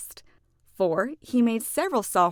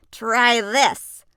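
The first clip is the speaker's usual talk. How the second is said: loud, eager invitation; a hint of a proud cook; excited offer; 2 semitones higher, 9 dB louder than usual. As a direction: push the treat at your friends. Character offers food.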